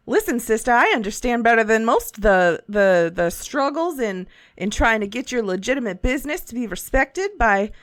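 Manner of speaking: lightly voiced friendly old shopkeeper; a folksy merchant, easygoing; shopkeeper Schnick Tick.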